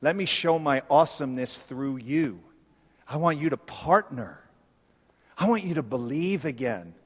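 Jesus speaking low and soft, quickened; a gentle, intimate voice for Jesus; voicing Jesus. Preacher voicing Jesus inviting the disciples, low and soft. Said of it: "He goes".

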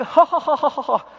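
high loud cackling laugh; mocking laughter. Crew laughing at the Asian kid's lunch, loud guffaw. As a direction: laugh it up at his expense.

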